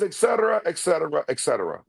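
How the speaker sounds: busy king waving it off; King of Siam impression. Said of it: "he says".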